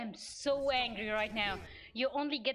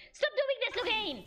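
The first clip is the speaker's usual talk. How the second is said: higher, pleading angry shout; exasperated yell; 8 semitones higher than usual. Real, not acted. Streamer yelling at Loghain mid-fight, exasperated shout. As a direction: beg him to stop, fed up.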